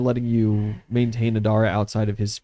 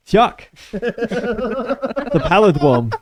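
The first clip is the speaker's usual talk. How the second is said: lisp; 9 semitones higher, 5 dB louder, much slower than usual. Acted. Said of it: "with doing the fucking lisp the entire time".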